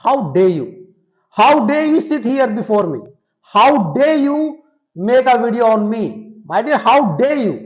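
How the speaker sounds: slow, drawn-out indignant scolding; mock outrage. Shown as a demonstration. Teacher hams up an outraged British speaker for the students. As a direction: act offended, stretching every word. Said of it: "British accent वहां पर आ जाता है".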